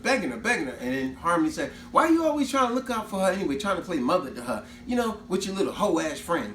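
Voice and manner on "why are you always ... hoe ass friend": 1 mocking older sister. Harmony insulting the friend.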